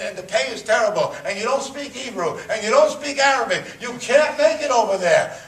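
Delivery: rising from scoffing to a loud, high outcry; incredulous scolding. Retold or imitated. Congregation scoffing at his Aliyah plan, building to a loud, high outcry.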